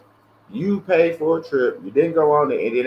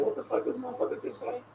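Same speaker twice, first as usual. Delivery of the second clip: stunned disbelief; 10 semitones higher, 12 dB quieter than usual. Retold or imitated. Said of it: "you sit back and think".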